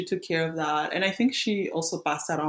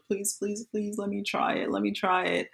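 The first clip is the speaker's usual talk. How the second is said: soft pleading, pitched a bit higher; begging; 4 semitones higher, 4 dB quieter than usual. Retold or imitated. Teen begging her older cousin for a drink, softly pleading. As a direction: plead quietly to be allowed to try. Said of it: "I was begging her".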